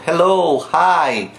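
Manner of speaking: "hello, hi" com H soprado; aspirated English h. Shown as a demonstration. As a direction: sopre o H de "hello" e "hi". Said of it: "o som do H em inglês". (H aspirado do inglês)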